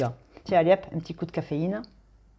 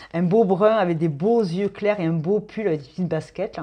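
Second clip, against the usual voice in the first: normal talking voice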